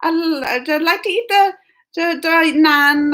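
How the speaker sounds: halting attempt at an Indian accent. Shown as a demonstration. Host attempts a saying for viewers, unconvincing Indian accent. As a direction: try an Indian accent, faltering. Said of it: "an Indian accent".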